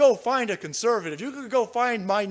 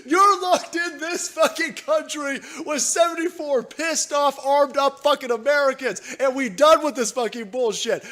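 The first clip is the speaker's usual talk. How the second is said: raised furious shout; 4 semitones higher than usual. Real, not acted. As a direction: bellow it as a threat. Shouting threat.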